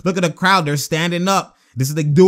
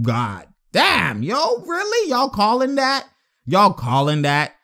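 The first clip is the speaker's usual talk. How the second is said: imitating Steve Kerr; 2 semitones higher, slower than usual. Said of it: "he's like".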